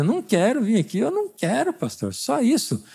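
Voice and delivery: put-on high, whiny kid refusing to come; whiny refusal. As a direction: pout it out like a reluctant teen. Quoted reluctant young person.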